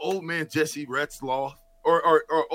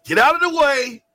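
joyful shout, much higher and louder; excited shout; 10 semitones higher, 8 dB louder, slower than usual. Real, not acted. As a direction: announce the grandson with a big cheer. Announcing grandson with joy.

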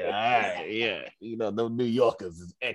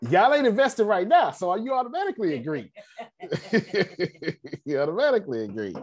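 laughing tease; 9 semitones higher than usual. Real, not acted. Teasing audience while laughing.

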